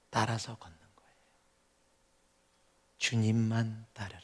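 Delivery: soft, slowed, half-whispered; hushed earnest close. Real, not acted. Preacher to congregation, softly driving it home. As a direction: let it fall to a near whisper. Quiet, slowed closing of a point.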